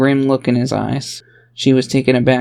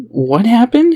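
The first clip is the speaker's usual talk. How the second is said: high, louder alarmed what happened; alarmed question; 10 semitones higher, 5 dB louder, slower than usual. Acted. A father hears his daughter nearly died, alarmed. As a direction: jolt into worry. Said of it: "seeming lost but greatly concerned".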